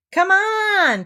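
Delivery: high, loud call. A narrator's reading. Owl calling to the expedition, loud call. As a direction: shout it up the line. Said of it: "called Owl".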